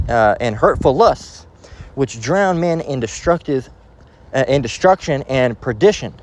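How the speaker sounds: slow, solemn Bible reading; measured reading of scripture. Acted. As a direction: read the verse with weight. Reads scripture aloud.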